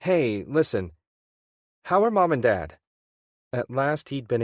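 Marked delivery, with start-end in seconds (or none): 0.0-2.8 anxious question. A narrator's reading. Ian finally asks.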